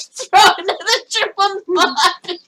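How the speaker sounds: laughing, hammed-up Australian twang; mock Australian accent. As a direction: put on a jokey Australian accent. Mocking with Australian stock phrase.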